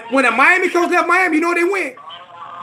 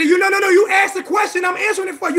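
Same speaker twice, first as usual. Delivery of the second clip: raised voice; 6 semitones higher than usual. Real, not acted. Heated back-and-forth in debate.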